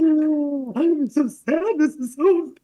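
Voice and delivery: high, loud comic wail; hammed-up tearful lament; mock bursting into tears. Host retells breaking down after designer left, mock wailing. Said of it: "now I'm bursting in tears".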